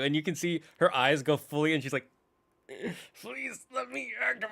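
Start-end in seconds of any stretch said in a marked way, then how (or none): 3.2-4.4 pleading AI. Retold or imitated. Controlled AI pleading.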